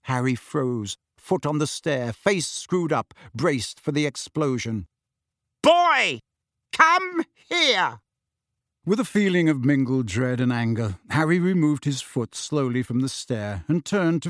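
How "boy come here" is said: high, loud barked order; angry summons. Acted. Uncle summoning Harry angrily, loud bark. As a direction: bark at the boy.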